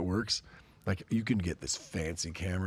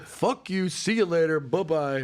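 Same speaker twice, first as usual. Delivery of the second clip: mock dismissal; 10 semitones higher, 6 dB louder, slower than usual. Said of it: "And he was like".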